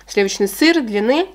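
talking while taking bite; words around spoon; fork at lips. Real, not acted. Seen 0: Talks holding forkful; chewing only before; spoon at lips from 4.6.

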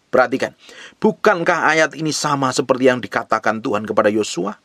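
ordinary delivery

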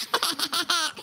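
low, soft chuckle; sneaky laugh. Acted. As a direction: chuckle quietly to yourself. Si intrufola da Luigi.

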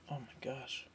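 gasping through a spicy bite; after eating wasabi. Real, not acted. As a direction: mouth burning from wasabi. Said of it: "Sorry, I had, uh, wasabi peas".

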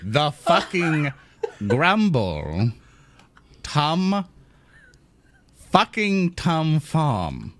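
slow, disbelieving drawl of each word; slow incredulous repeat. Acted. Lorne repeats the farm name back, slow and incredulous. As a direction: spell out the absurd name in disbelief.

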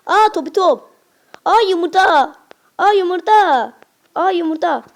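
high, loud surprised ah. Real, not acted. Kid spotting eggs in the game, loud high surprise. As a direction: gasp at each find.

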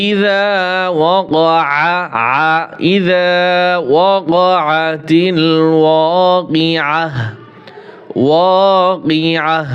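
slow, drawn-out tajweed chant; Quran recitation. Shown as a demonstration. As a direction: recite each word with long held vowels. আমরা আবার পড়ি. (ধীরে টেনে টেনে কোরআন তিলাওয়াত)

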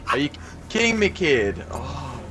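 raging gamer. Real, not acted.

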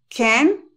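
CAN as "ken", T dropped; no final T. Shown as a demonstration. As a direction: say CAN with a clear E, ending on N. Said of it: "si le sigue verbo".

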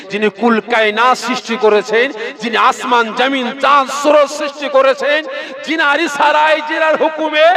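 high, loud, defiant woman's voice; defiant Masata. Acted. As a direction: hurl her faith at the tyrant, pitched high and loud. Masata defies Pharaoh, preacher voicing.

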